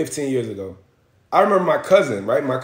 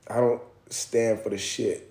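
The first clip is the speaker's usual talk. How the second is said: old white man impression; 5 semitones lower, 7 dB quieter, slower than usual. Imitating old white men.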